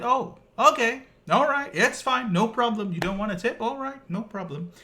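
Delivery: imitating a furious delivery man spitting out no problem; mock furious okay. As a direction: play the waiter barely holding in rage. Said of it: "he went berserk".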